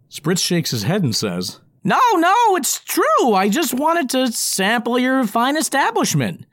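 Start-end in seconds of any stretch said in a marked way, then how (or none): 1.8-6.5 high, loud, earnest goblin voice; eager goblin. Acted. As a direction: insist he means well. Goblin character voice.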